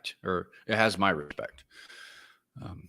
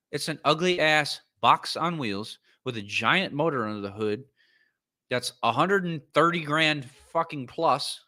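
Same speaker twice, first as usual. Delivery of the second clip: higher, louder rant at the car; raised ranting voice; 6 semitones higher than usual. Real, not acted. Ranting at the viewers about the G-Wagon, loud and exasperated. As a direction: yell it like you're fed up. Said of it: "I don't know how loudly I need to yell this thing".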